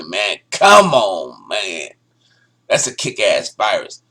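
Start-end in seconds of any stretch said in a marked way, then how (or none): 0.5-1.9 1 call-out. Real, not acted. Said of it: "You gotta say it with me".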